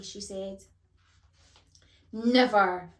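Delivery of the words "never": loud, drawn-out, theatrical denial; grand dramatic outburst. A narrator's reading. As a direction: declaim it like a ham actor. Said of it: "said Tangine theatrically".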